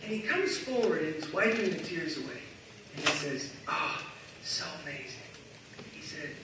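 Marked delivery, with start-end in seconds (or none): 3.7-5.2 soft, low attempt at Fergus's accent. Tearful man tells the team, in imitated Fergus's accent. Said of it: "I can never do it as good as him".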